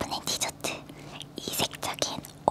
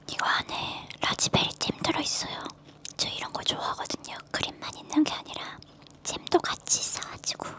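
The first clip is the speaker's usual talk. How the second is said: talking between bites; speaking while eating dessert; mouth full, chewing. Real, not acted. Seen 1: Bite taken before 0; lips closed, chewing while showing jam filling.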